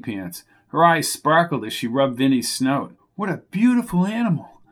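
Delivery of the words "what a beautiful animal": slow, snooty and superior. A narrator's reading. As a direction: say it like a snob admiring a horse. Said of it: "she said in a slow, almost snooty tone".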